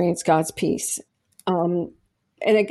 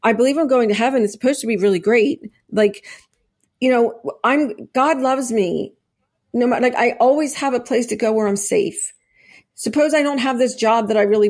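excited retelling; 2 semitones higher than usual. Retold or imitated. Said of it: "And I was like".

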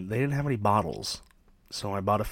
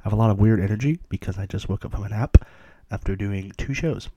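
wired energetic; 6 dB louder, faster than usual. Shown as a demonstration. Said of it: "I'm not gonna talk like that".

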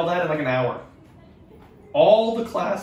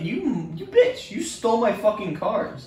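"bitch" flung up very high; shrieking accusation of theft; mock outrage; 6 semitones higher, slower than usual. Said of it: "I was like".

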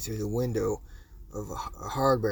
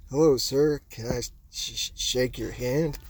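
nervous stammer. Retold or imitated. Nervous kid meets celebrity.

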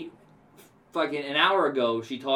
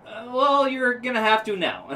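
higher, louder, sassy reply; mock sassy retort; 11 semitones higher, 6 dB louder than usual. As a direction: sass him right back. Lady's sarcastic retort.

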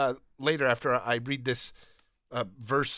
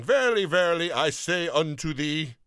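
a hint of archaic solemn grandeur, louder on verily; old King James voice; 4 dB louder than usual. Host mocking King James wording as Jesus, lightly solemn. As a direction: lightly intone it like an old scripture reading. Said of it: "Jesus is always saying".

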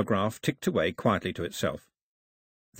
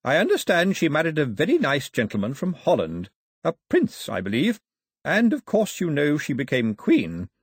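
a hint of an old man, chatty and fond; slightly higher, gentle old storyteller; lightly voiced old man; 4 semitones higher than usual. Old man chatting to two children, lightly voiced.

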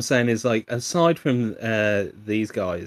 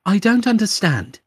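high-pitched mock voice assistant; high, sing-out assistant parody; Siri impression; 11 semitones higher, 4 dB louder than usual. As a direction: mimic a baffled digital assistant, pitched up high. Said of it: "it's just Siri being a creeper".

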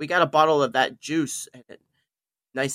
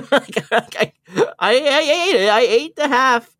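high, breaking laughter through words; laughing while talking; 10 semitones higher, 4 dB louder than usual. Real, not acted. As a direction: laugh it out, half crying. Laughing, recalling eating the gummy.

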